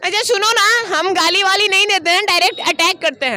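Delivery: put-on cocky girl voice; man doing a woman's voice. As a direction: tease her in a girl's voice. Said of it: "ऐसे बोले". (लड़की की आवाज़ में अकड़)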